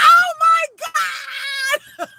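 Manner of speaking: very high, loud, crying out in disbelief; half-sob, half-shout of joy; shrieking excitement. Real, not acted. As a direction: scream it out, overwhelmed. Reader confirms it's really them.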